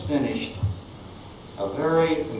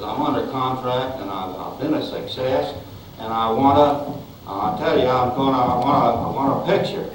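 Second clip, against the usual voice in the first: put-on southern accent. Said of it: "he had this very southern accent".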